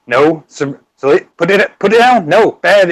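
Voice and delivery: mock scolding, pitch climbing; Batman scolding. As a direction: scold lightly, as if to a naughty pet. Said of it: "is him just".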